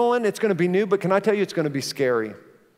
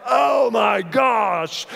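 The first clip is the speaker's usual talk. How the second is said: startled shout; 3 semitones higher, much slower than usual. Retold or imitated. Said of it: "And I'm like".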